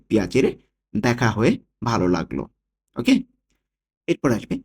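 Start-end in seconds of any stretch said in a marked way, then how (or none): 0.1-2.4 পিয়াচেরে run together quickly. Shown as a demonstration. Teacher showing learners how it sounds said fast, quick পিয়াচেরে. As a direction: say পিয়াচেরে in one short, quick go. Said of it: "যদি তাড়াতাড়ি বলি".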